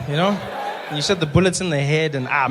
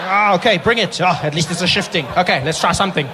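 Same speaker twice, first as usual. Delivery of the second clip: improvising doctor; 4 semitones higher, 6 dB louder than usual. Retold or imitated. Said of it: "There's the doctor".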